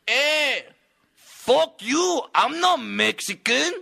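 high, loud angry yell; angry heckler. Retold or imitated. Heckler yelling at the comedian, high and loud. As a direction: snap back at the comic from the crowd. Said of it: "some dude stands up and just goes".

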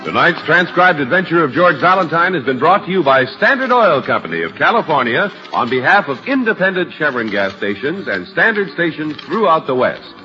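classic radio announcer delivery; old radio announcer. Acted. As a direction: read the credits like a vintage broadcast. Announcer reads credits over music.

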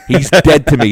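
laughing while repeating the punchline; mock-dramatic, cracking up mid-line. Repeating the reporter's grudge to the host, laughing.

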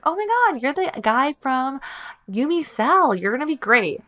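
high, gushing "Oh my God" fan excitement; excited fangirl squeal. Retold or imitated. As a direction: squeal like you just spotted a favourite actor. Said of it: "I was like".

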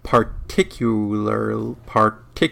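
slow, halting attempt at "particularly"; struggling to pronounce. Real, not acted. Host retrying a word he can't say, slow, halting "particularly". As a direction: drag out "particularly" slowly, feeling for each syllable. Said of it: "I can't say that word".

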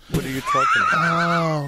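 sudden very high squeal; squeaky high voice. Acted. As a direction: jump way up into falsetto. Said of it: "What was that?".

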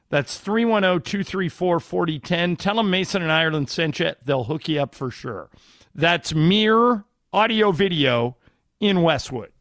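upbeat radio ad read. Acted. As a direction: sell it like a live spot. Host reads live sponsor ad.

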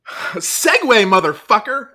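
loud high shout; shouted catchphrase. Real, not acted. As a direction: yell it out.

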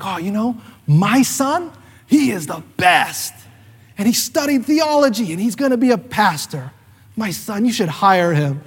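proud mother's sing-song brag; proud mom. Retold or imitated. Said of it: "And she's like".

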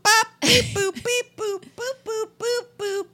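high loud beeps and boops; toy robot voice. Pretend. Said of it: "I am Data".

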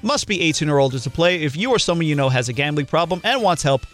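steady sponsor read-out. Acted. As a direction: read the ad copy evenly. Reads sponsor ad.

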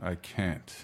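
Wolverine voice. Pretend. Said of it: "try my Wolverine impression again".

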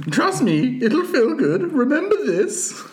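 coaxing sea creature voice; squid voice. Acted. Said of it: "I start emulating your squid voice".

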